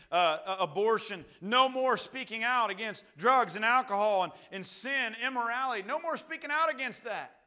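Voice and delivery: escalating preacher's litany; building decree. Acted. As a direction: start measured, climb in pitch and force with each ban. Acting America's bans, building.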